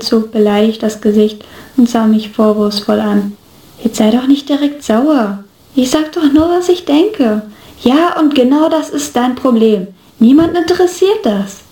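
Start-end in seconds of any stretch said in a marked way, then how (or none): 3.8-7.4 mildly offended, pitch climbing toward the end; defensive protest. Acted. Acted quarrel, defending himself. 7.8-11.6 mildly cross retort, rising high at the end; annoyed comeback. Acted. Acted quarrel, annoyed comeback.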